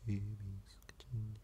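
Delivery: breathy whispered blurt; whispered tic. Real, not acted. Blurting a tic to the camera, whispered. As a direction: slip it out in a whisper.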